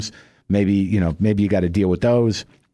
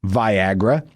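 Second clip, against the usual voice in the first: defensive. Retold or imitated. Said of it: "you get a little defensive".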